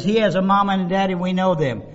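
usual speaking voice

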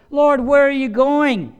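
high, loud, slow worried cry; anxious plea. Acted. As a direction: Peter begging his Lord not to go. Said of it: "feeling like Peter".

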